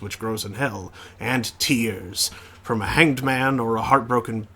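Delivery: lightly voiced triumphant ship's chef; a hint of a grand, boastful cook; proud chef. Chef reporting his recipe triumph to the captain.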